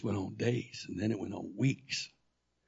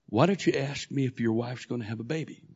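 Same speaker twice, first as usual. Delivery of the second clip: voice of God; 5 dB louder than usual. Retold or imitated. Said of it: "I heard this voice say".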